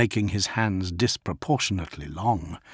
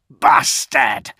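hissed curse; 6 dB louder than usual. A narrator's reading. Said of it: "Kurz hissed".

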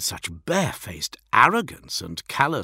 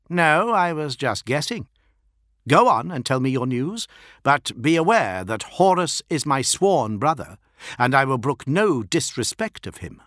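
louder, higher proud warlord, lightly acted; lightly voiced proud primarch; 5 semitones higher, 3 dB louder than usual. Fulgrim warns an envoy against disrespect, lightly commanding. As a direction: give a hint of a commanding lord.

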